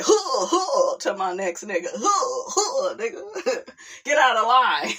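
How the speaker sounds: laughing through mock rapper grunts; imitating a rapper. Laughing while imitating the rapper at her friend. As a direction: tough rapper bark, cracking up. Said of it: "I'ma be like".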